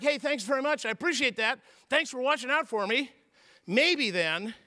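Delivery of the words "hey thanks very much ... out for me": grateful thanks. Pretend. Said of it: "'cause I responded positively".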